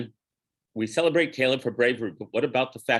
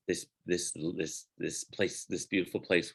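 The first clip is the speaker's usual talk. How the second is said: hushed awe; 5 semitones lower, 8 dB quieter than usual. Shown as a demonstration. Hushed wonder at the land.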